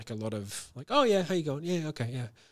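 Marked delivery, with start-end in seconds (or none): 0.9-2.3 fast, high, bright and very upbeat delivery. Showing how the speaker greets someone before getting to the problem, quick, very upbeat tone. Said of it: "but very upbeat".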